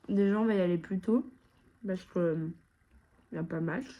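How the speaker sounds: talking through a mouthful of pasta; mouth full. Real, not acted. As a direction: speak round a bite of food. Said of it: "c'est très impoli de parler la bouche pleine".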